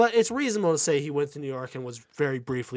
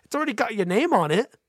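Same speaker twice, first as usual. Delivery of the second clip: high Luigi voice; 11 semitones higher, 3 dB louder than usual. Retold or imitated. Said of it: "Luigi's like".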